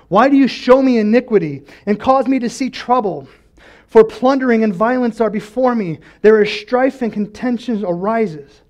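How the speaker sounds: prophet's impassioned protest; crying out. Retold or imitated. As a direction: declaim the complaint to God. Voicing Habakkuk's complaint to God.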